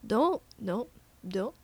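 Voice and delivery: trying out an Irish vowel on "Don't"; tentative Irish accent; Irish accent attempt. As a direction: test the Irish lilt word by word. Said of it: "Just a little bit more Irish".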